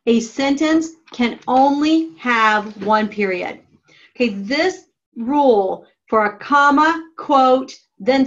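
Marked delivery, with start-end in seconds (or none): 0.1-3.6 slow repeat. Shown as a demonstration.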